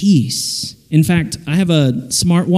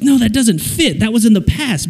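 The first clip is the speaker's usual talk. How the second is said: higher-pitched protest; objecting English teacher; 5 semitones higher than usual. Retold or imitated. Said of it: "as an English teacher".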